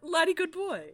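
high, loud playful catchphrase; mock doggy praise; high silly. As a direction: sing it out goofily. Trading dog catchphrase.

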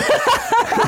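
short high laugh; real high-pitched cackle; laughter. Real, not acted. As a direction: burst out laughing. Producer's answer cracks them up.

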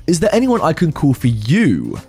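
a lightly put-on old man sneering back the question; angry old man mocking the driver's question. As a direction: throw the words back at her. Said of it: "switched back from confused to being angry".

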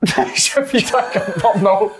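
put-on laughing, very slow French-accent echo; mocking French accent. Co-host mimicking the French accent, laughing. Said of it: "That was incredible".

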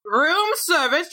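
high, slow chirpy room service call; high, drawn-out room service call at the castle door; mock room service. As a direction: sing it out like a bellhop at the door. Pest knocking pretends room service.

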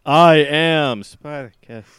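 loud, slow, high squeaky proclamation; squeaky mock declaration. Shown as a demonstration. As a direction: ham up the squeak on a heroic line. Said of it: "just sort of squeak a little bit".

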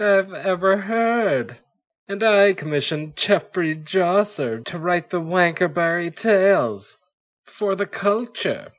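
hammy stage actor. Acted. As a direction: ham up the old-timey royal speech. King laughing at Frosh.

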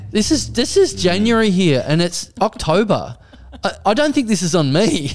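exasperated reply. Retold or imitated. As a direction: explain the obvious in baffled protest. Retold reply to mistaken customer.

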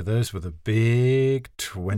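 slow, soothing announcement. Acted. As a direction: soothe them with it. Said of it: "What a soothing Big Twenty".

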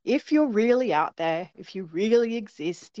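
lightly mocking challenge to the unseen; sarcastic. Mum addressing the aliens for her kids, sarcastic. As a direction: humour them with a dry dare. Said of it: "just went sarcastically, scoffed a bit".

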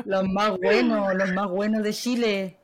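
slow, breathy seductive whisper; sultry whisper. Acted. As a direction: whisper it slowly like a temptress. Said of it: "Se escucha una voz sensual".

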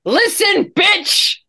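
menacing cartoon squeak; squeaky threat voice. Threatening in silly voice.

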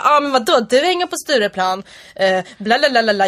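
chattering put-on Stockholm dialect; mock a babbling Stockholmer; Stockholm accent. Shown as a demonstration. Quoting a customer in the dialect demo, Stockholm accent.

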